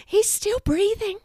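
very high, squeaky mouse voice; tiny mouse. A narrator's reading. Mouse asking Archie for help, high and squeaky.

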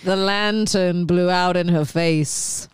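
slow spooky storyteller; hushed campfire-tale read, drawn out; ghost story voice. Acted. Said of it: "Yeah, that's the voice".

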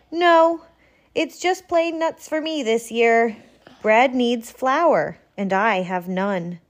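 lightly voiced squirrel, high and a touch glum; a small high animal admitting she has no flour. Squirrel tells Porcupine she has no flour, lightly voiced and a bit sad.

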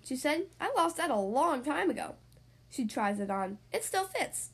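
lively picture-book storytelling voice; reading to children. Acted. Podcast host reading a story to young kids, lively storyteller. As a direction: tell it brightly for six-year-olds.

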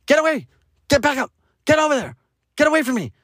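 put-on high, dismissive mom brushing kid off; mimicking the careless mother; mock snappy mom. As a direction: shoo the kid away in a high mocking voice. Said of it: "she's just like".

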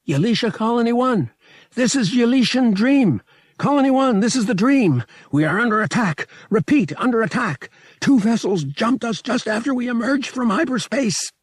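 high, loud mayday shouting; strained distress call. A narrator's reading. Han radios the colony under attack, loud strained shouting. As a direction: call for help with all your lungs. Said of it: "Han's voice cracked from the strain".

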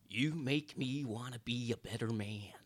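a light, slowed hint of a Jack Nicholson drawl; mild Jack Nicholson impression. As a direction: lean back and play it lazily, like a faint Nicholson. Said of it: "said it in a Jack Nicholson voice".

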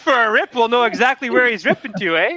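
easygoing mock-Canadian voice; light Canadian accent; Canadian mechanic. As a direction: play a chatty Canadian workman. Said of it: "They're, they're Canadian?".

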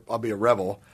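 low, sultry drop in pitch. Real, not acted. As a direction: let the voice sink low over a fantasy. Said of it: "Why'd you lower your voice?".

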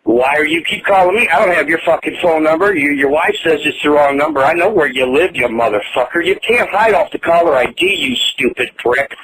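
loud, furious cursing down the phone; furious yelling. Real, not acted. Angry man shouting at the prank caller, furious. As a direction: rage at the caller, full voice.

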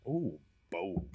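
breathy mock-awed whisper. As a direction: hush it like a secret. Reacting to bold predictions.

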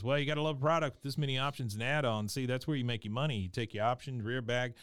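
lightly imitated fast-talking salesman; quick patter, a hint of a salesman; salesman going off. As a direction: rattle off a sales spiel, slightly under your breath. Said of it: "going off".

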